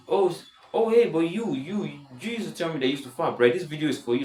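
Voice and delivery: high-pitched teasing jab; mock comeback. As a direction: pitch it up, playfully calling someone out. Imagined teasing comeback to childhood acquaintance.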